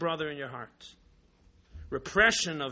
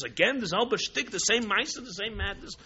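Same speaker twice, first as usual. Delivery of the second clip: mock astonishment in a higher pitch; astonished; 4 semitones higher than usual. Bartender faces the same customer's outburst again, astonished. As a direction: play the exasperated, disbelieving bartender lightly.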